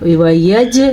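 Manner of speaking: وَيَجْ ending on a bounced ج; qalqalah. Shown as a demonstration. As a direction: echo the final ج of وَيَجْ. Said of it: "قلقلہ".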